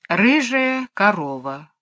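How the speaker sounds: slow, drawn-out storyteller's naming; name it slowly, as if remembering; dreamy storytelling. A narrator's reading. Mary Poppins gazing ahead, continuing her tale dreamily. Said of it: "Потом продолжала, мечтательно глядя".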